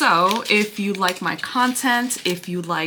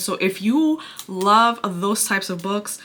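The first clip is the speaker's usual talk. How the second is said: out of breath. Real, not acted. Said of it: "I'm sorry if I sound out of breath".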